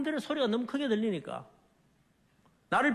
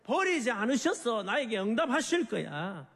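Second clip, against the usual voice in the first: David's raised, insistent cry; crying out in defiance; 3 semitones higher than usual. Acted. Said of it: "더 큰 소리로 외치기를".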